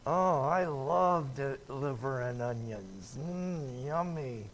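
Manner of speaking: mock-delighted, dripping with sarcasm; sarcastic praise. Guest pretending to love liver and onions, sarcastic. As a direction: fake relish for food you hate. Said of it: "I gave it away as sarcasm".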